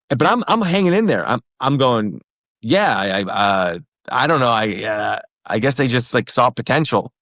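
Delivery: mildly flustered, with false starts; nervous. Retold or imitated. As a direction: stumble through an awkward answer. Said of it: "you look a little nervous".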